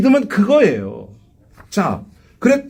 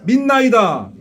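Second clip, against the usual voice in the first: fervent repeat; 3 semitones higher, much slower than usual. Shown as a demonstration. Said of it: "한번 따라합시다".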